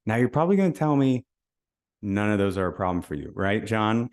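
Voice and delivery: sarcastic dare to a prospect named John; a little sarcastic. Shown as a demonstration. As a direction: toss it off with a knowing little smirk. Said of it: "maybe a little sarcastically".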